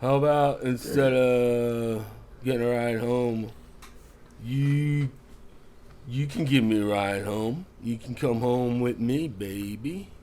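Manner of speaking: a lightly voiced drunk, slow and leering at first; slow, sleazy pickup line, only lightly put on; drunk customer. Drunk customer hitting on the bartender at closing, slow and leering. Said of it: "He goes".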